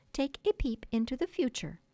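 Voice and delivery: grand storytelling effort. A narrator's reading. Wendy bracing for her finest effort, grandly theatrical. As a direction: usher listeners grandly onward. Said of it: "bracing herself for her finest effort".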